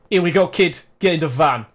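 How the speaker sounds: gruff Belter heavy. Acted. Belter hustling the kid into the van, lightly voiced heavy.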